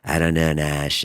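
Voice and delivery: lightly imitated peaceful friend, low; a hint of a placid, low-voiced pal; Hajar. Podcaster imitating his peaceful friend, lightly mellow. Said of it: "he talks like this".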